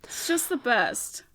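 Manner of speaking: soft breathy whisper. Real, not acted. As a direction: breathe it out dreamily. Dreamy aside about movie.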